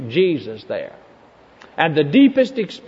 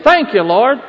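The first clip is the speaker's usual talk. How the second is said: "Thank you, Lord" lifted and louder with a rising end; loud joyful thanks; 7 semitones higher, 7 dB louder than usual. Retold or imitated. Preacher retelling the boy's prayer, louder and jubilant. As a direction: ring out the boy's grateful prayer.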